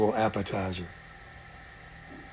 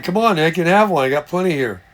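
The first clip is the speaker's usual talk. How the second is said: teasing invitation; 5 semitones higher than usual. Pretend. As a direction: coax a friend playfully. Teasing friend Nick with tacos.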